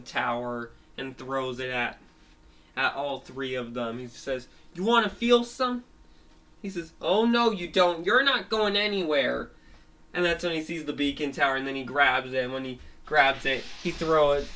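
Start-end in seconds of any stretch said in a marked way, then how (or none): 4.7-5.8 taunting threat. Acted. Villain threatens the friends. 7.0-9.5 defiant threat. Acted. Villain stops them escaping.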